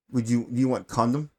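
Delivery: lightly imitated Middle Eastern caller; a hint of a Middle Eastern accent on the phone; retold caller with a light Middle Eastern accent. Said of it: "you know, with his accent".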